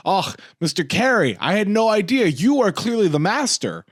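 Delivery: bow to the master in a hammed-up Italian accent; quick change artist bowing to Mimi, in an awed Italian accent; impressed Italian accent. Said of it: "he goes".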